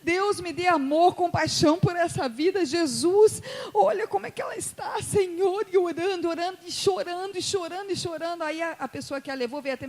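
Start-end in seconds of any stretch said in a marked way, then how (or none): 0.0-5.7 high, emotional pleading; fervent prayer. Retold or imitated. Preacher interceding for the smoking guest, fervent high plea. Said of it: "eu comecei orando". 5.7-8.4 tearful retelling. Retold or imitated. Retelling her tearful praying.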